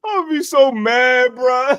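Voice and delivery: slow, laughing; laughing mad. Real, not acted. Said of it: "I'm crying".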